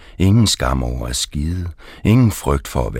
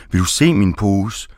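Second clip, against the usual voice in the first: higher, defiant question; mock shouted challenge; 5 semitones higher than usual. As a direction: dare her to look, pitch lifted. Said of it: "råber jeg". (ejeren råber trodsigt tilbage)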